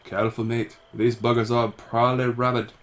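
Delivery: lightly voiced wary companion; a hint of a put-on character voice; game companion's voice. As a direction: warn a mate in character.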